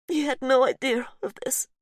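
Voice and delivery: put-on high, pained line in a Polish accent. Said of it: "Her accent is strong".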